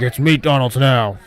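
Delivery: a hint of a worker in trouble; mock strained voice. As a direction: drag it out like he's choking on something. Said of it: "he's like".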